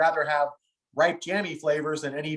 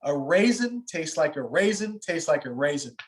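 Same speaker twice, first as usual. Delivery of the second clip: put-on heavy French accent. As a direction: quote a French winemaker in his accent. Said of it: "in his heavy French accent".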